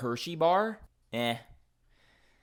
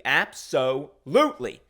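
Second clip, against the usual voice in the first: duck's absolutely; 5 dB louder than usual. Retold or imitated. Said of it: "that's the way he would say absolutely".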